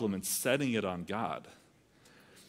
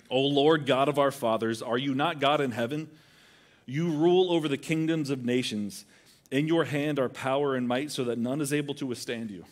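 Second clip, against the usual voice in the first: solemn prayer reading; 2 semitones higher, 3 dB louder than usual. Acted. Reading Jehoshaphat's prayer aloud.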